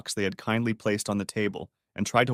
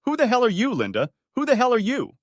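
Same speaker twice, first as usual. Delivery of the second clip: higher, louder furious demand; angry shout; 13 semitones higher, 5 dB louder than usual. Acted. Betrayed husband to his wife, angry shout. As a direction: yell it at her across the table. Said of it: "to emphasize his anger".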